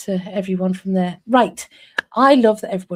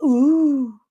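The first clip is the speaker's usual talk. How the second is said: long, raised "ooh" of interest; drawn-out impressed ooh; intrigued "ooh"; 4 semitones higher, 5 dB louder than usual. Retold or imitated. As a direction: coo with sudden interest. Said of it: "I was like".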